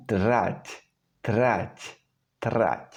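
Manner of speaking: trať moving from D to rolled R; slurred D. Shown as a demonstration. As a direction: loosen the D into a trill in trať. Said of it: "slur the pronunciation a little bit".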